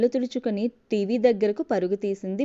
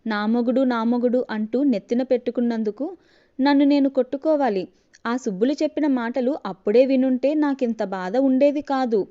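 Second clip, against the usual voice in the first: mock lament, a little louder; a hammed-up loud lament; loud wailing; 3 dB louder than usual. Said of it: "గట్టి గట్టిగా అరుస్తూ ఉంది". (గట్టిగా నటన ఏడుపు)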